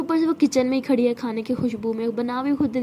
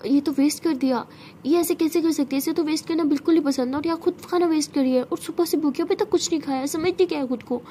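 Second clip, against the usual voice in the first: raised, exasperated scolding over wasted food; angry scolding; 4 semitones higher than usual. Acted. Siya scolds her absent stubborn sister, voice raised in anger. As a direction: let the anger climb as she scolds.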